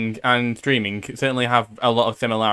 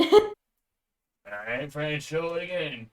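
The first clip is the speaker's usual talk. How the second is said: put-on cowboy accent; 2 semitones higher, 7 dB quieter than usual. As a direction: slip into a Western accent. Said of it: "I have to do a cowboy voice".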